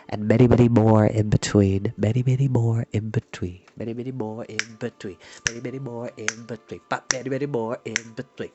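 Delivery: playful echo. Pretend. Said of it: "I just had too much fun".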